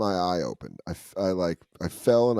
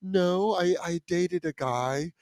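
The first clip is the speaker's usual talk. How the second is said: put-on high, faltering girl's voice; sheepish mimicked hostess, higher and hesitant; caught-out faker; 8 semitones higher, slower than usual. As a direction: stammer an excuse, getting slower. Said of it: "the girl's like".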